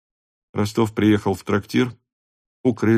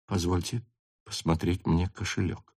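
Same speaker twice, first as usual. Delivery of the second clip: much softer, barely heard request; barely audible; 3 semitones lower, 10 dB quieter than usual. A narrator's reading. Rostov asks the lieutenant for the wallet, barely audible. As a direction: say it almost under breath. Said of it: "сказал он тихим, чуть слышным голосом".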